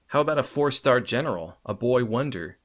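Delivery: teasing laughter. A narrator's reading. Batgirl keeps teasing laughing.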